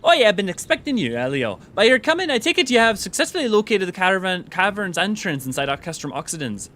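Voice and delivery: lilting character voice, swooping high then falling; Jabrolka. Acted. Quest-giver greeting Elio, who was expected, in a high, swooping put-on voice. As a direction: play a game character with big high-pitched swoops. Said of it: "easier to do that voice".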